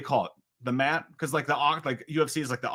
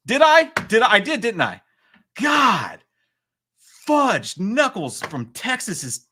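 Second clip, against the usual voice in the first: high, loud, dragged-out dismay; exasperated disbelief; 10 semitones higher, 6 dB louder than usual. Real, not acted. Streamer told he misspelled villains, high loud exasperation. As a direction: wail in comic indignation at your own blunder. Learns of his embarrassing misspelling.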